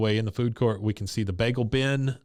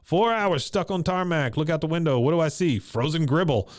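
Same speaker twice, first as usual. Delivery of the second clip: mock Russian accent Kahn; 6 semitones higher than usual. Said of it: "He goes".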